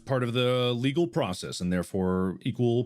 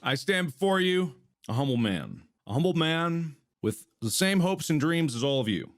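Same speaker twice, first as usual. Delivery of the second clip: hammed-up courtroom orator, starting higher and fast; mock defense lawyer; 3 semitones higher than usual. Defense counsel pleading to the jury, mock grand oratory.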